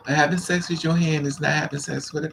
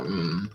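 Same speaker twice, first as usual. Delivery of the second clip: low pleased hum; 11 semitones lower, 6 dB quieter than usual. Retold or imitated. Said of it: "make you go".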